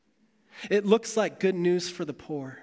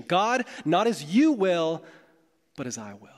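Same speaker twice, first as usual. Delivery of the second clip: defiant declaration. Retold or imitated. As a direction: proclaim it like humanity defying God. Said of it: "the fruit of this declaration".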